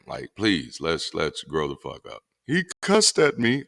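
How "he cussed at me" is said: mock offended. Mocking offended believers.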